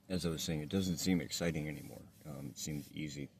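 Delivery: speaking without dentures, toothless; gummy toothless speech. Real, not acted. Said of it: "Sorry, I'm not wearing my teeth".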